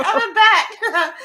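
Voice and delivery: high, slow, laughing through the words. Retold or imitated. Girl retelling being a bat, high and slow through laughter. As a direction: let the laugh stretch each word out. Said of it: "I'm like".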